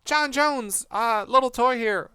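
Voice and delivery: high, strained squeaky toy voice; toy henchman voice. Acted. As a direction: pinch it up into a little toy.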